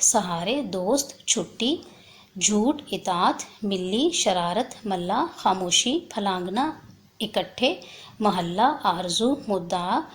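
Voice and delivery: slow, careful word-by-word reading; timed reading demo. Shown as a demonstration. Teacher reads the word list aloud so pupils can time it. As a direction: read each word out clearly, one at a time. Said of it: "جیسے ابھی میں دیکھتی ہوں، آپ ذرا time note کریں".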